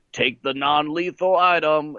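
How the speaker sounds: slow, lightly imitated Southern cop; hillbilly cop. Hillbilly cop giving the next test instruction, light imitation. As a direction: order it with a hint of hillbilly lawman. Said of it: "a hillbilly cop voice comes on".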